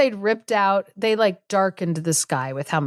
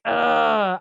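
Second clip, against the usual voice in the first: higher, drawn-out groan of annoyance; imitated exasperated sigh; mock exasperated; 4 semitones higher than usual. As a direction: act out a fed-up ogress groaning. Ogress finds the job already done.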